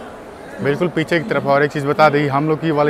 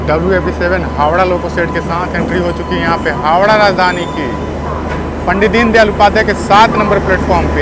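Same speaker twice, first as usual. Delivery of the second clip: loud over train noise; 3 semitones higher, 5 dB louder than usual. Real, not acted. Calling over arriving train noise.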